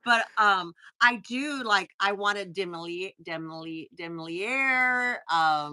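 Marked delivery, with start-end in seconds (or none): 4.0-5.2 demoliere- dragged out slowly, sounded out and fumbling; slowly sounding out demoliere- and getting it wrong; struggling pronunciation. Shown as a demonstration. Trying to say a French bag name, slow fumbling. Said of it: "I can't say that right".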